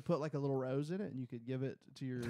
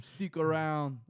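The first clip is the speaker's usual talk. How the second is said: second Schwarzenegger try; 5 dB louder, slower than usual. Retold or imitated. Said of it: "I can't do that".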